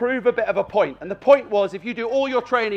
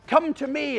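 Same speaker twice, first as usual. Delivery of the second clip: inviting call; 5 semitones higher than usual. Shown as a demonstration. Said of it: "It's about".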